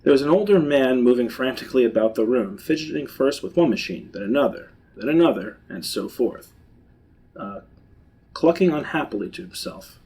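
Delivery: measured read-aloud of a tale; storyteller describing a discovery; story narration. A narrator's reading. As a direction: narrate the scene steadily.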